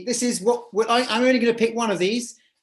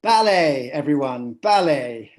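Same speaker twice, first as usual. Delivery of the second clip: announcing; 6 semitones lower, 4 dB louder than usual. Real, not acted. Host reveals chosen dance style.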